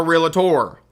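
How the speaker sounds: "realtor" said with an extra syllable, REE-la-tor; mock the mistake with "realtor" stretched to REE-la-tor; wrong Southern pronunciation. Shown as a demonstration. Instructor mocking Southern students' word, three-syllable REE-la-tor. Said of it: "we put extra syllables where they don't belong".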